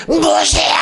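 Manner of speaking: high shouted call to Moses; frightened people crying out for Moses; crowd's cry. Acted. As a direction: yell his name in panic. Israelites calling Moses.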